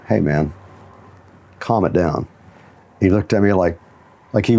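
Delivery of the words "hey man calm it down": low, soft, deadpan warning; mock-serious stern telling-off, no smile in it. Coach deadpans a student who got mad, lower and softer. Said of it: "with this real s-, stone face".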